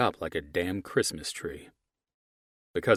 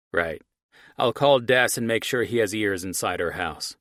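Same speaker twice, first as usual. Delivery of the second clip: villain on phone; 3 semitones higher, 6 dB louder than usual. Acted. Archie on phone.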